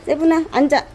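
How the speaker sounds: talking to a dog. Real, not acted. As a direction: drill the dog firmly on sit. Command to dog.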